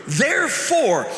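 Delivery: mildly heated, emphatic reading, stretched on key words; understated fury, deliberate and forceful; furious letter reading. Acted. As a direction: read it as an urgent, indignant letter. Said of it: "furiously scribbling out".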